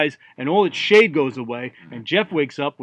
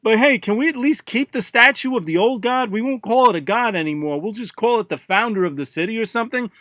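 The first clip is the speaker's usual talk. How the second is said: higher-pitched mayor butting in; interrupting mayor; 6 semitones higher than usual. Acted. Mayor to Jeff, pleading to keep the statue, higher-pitched bargaining. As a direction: jump in and bargain as the town's mayor. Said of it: "the mayor of Havanen interrupts all this".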